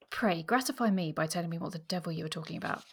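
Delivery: audiobook reading with lightly acted sparring; story narration. A narrator's reading. Host reading the bit she likes, story narration. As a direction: read both sides of the tiff, understated. Reads a novel dialogue aloud.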